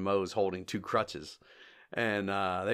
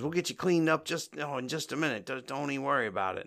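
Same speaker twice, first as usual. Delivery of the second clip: lightly imitated reassurance, pitched higher; Moe; 4 semitones higher than usual. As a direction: fuss over someone in a raised mimicking voice. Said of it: "Mo says".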